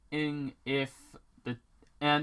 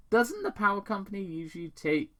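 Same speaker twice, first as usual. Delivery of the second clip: suspicious dad; 9 semitones higher, faster than usual. Acted. Tom voiced.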